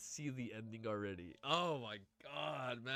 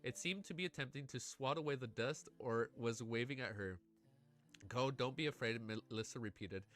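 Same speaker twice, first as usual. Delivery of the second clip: steady storytelling read to the chat; story narration. A narrator's reading. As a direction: read the ending like an audiobook, savouring it. Reads a novel aloud.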